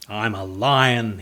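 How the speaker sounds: proudly. Acted. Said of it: "he said proudly".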